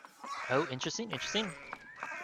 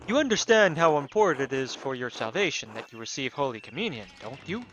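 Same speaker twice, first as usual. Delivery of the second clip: admonishing priest; 5 dB louder than usual. Acted. Priest pressing Andreas on Holy Communion, admonishing tone. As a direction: lecture a parishioner on salvation, mildly stern.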